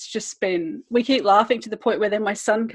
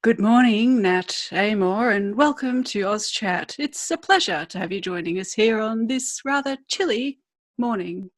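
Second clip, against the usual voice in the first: slow, measured mock-host welcome; formal interview opening. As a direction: open the chat show with exaggerated formality. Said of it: "this is how I'm supposed to start an interview".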